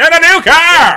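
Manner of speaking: very high, loud, drawn-out announcing voice. Joking about how the show's recap opens: Rod Roddy announcing. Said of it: "like, Rod Roddy announcing?".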